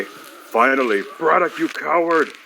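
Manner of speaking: triumphant villain's shout. Acted. Villain finally confronting a cowardly foe, shouted.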